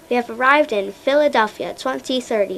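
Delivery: flat robotic computer voice. Acted. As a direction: speak like a machine robot. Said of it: "the robotic voice of the time machine".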